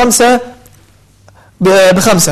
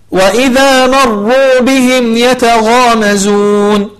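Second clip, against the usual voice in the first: slow drawn-out Quran chanting; tajweed recitation; much slower than usual. Shown as a demonstration. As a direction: chant the verse slowly with tajweed. Teacher recites the verse. (تلاوة مجودة بطيئة)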